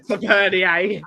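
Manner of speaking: Tavernier said the French way, slow, ending "nee-ay". Retold or imitated. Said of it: "It's like when people".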